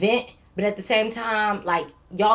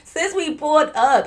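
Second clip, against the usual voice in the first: angry yelling; 6 semitones higher, slower than usual. Retold or imitated. Yelling back at the men.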